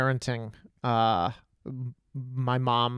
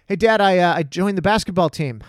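put-on higher, louder proud boy; eager kid; 4 semitones higher, 5 dB louder than usual. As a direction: call out the news hoping for praise. Kid voiced to dad.

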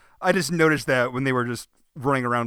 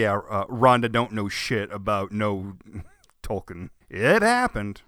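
ordinary talk

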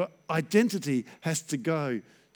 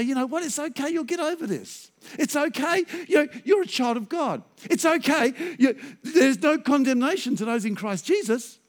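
higher-pitched, lilting reassurance; positive, encouraging; 7 semitones higher than usual. Acted. Pastor comforting someone going through a tough time, encouraging. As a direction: reassure a friend who is down, pitched up. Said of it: "I'd speak differently".

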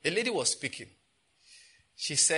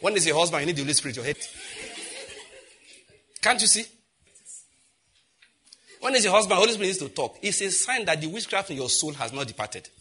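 exasperated rant; 3 semitones higher than usual. Real, not acted. Pastor ranting at congregation.

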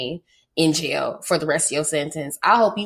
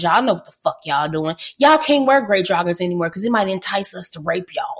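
mocking lecture; faster than usual. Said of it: "tell all these men".

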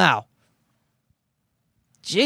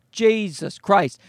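ordinary delivery

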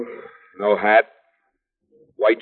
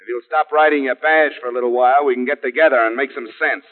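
exasperated; 6 semitones higher than usual. Acted. Detective quarrels with lieutenant.

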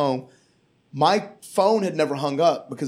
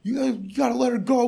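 higher mock cop voice; fast, raised quoting of the cops; imitating the cops; 9 semitones higher, faster than usual. Comic telling cops to let her go, higher voice. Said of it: "And they're like".

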